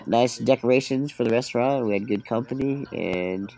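congested, nasally voice; stuffy nose. Real, not acted. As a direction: talk through a blocked nose. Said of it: "you sounded a little, uh, stuffy".

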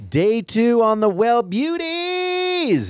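slow, high goofy announcer. Pretend. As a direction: drawl it out like a goofy promo. Jokey drug name announcement.

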